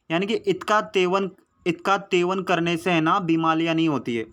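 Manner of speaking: a lightly voiced lisp, इतका तेवन with t for s; lisping child. Teacher mimics the neighbour kid's lisp, lightly. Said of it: "मतलब तुतला के बोलता है".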